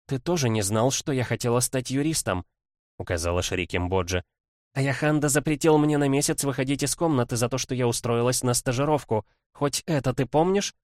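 brisk lawyerly princess voice, lightly voiced; quick, eager legal rattle; young woman voice. Kimbodzha reproaches brother.

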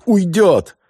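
high, loud cry; alarmed cry. Acted. Yakov crying out as the general slips away, high and loud.

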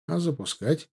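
ordinary delivery, nothing marked

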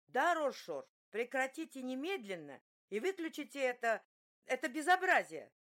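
she demands he switch it off; outraged scolding. Acted. Outraged woman scolds ogling skipper.

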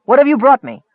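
lightly voiced angry wizard; cold demanding wizard. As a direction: challenge the goblins coldly. Akar demands.

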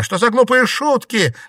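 high, loud scornful shout; angry shout. A narrator's reading. Щергина angrily dismisses the ghost with a high loud shout. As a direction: lash out at a bad joke. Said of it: "зло выкрикнула Щергина".

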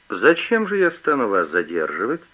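ordinary delivery

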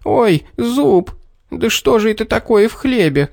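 high startled yelp; sudden cry of pain. A narrator's reading. Little man biting a pebble, high pained yelp. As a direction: cry out as a tooth bites on stone. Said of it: "и вскрикнул".

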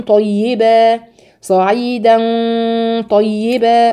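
صعيدا طيبا: thin د, heavy ط, slowly; recitation drill. Shown as a demonstration. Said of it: "ترقيق الدال على تفخيم الطاء". (صعيدا طيبا بترقيق الدال وتفخيم الطاء)

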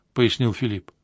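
ordinary delivery

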